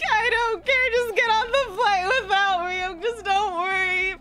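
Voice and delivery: retold insistent plea. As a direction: insist tearfully, drawing out the last words.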